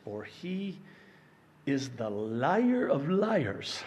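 ordinary talk

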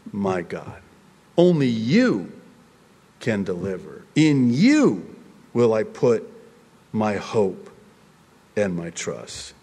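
earnest prayer. Acted. Believer answering the Lord with trust, earnest prayer. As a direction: lean on "You", let each phrase fall away.

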